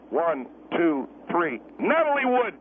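measured count, then the punchline; comic timing count. Acted. Guest times his joke's punchline like a counted-in song. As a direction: count it out slowly, then deliver the name. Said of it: "I'm entitled to the same timing".

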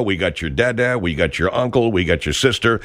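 local store ad spot with music; salesy ad announcer patter; radio ad read. Acted.

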